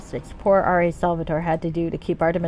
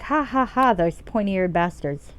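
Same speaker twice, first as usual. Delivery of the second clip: acted jeering with a mock ha-ha-ha; put-on mockery, drawn out at the end; mocking Drow; slower than usual. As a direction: jeer like a Drow making fun of elves. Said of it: "Drow will make fun of elves".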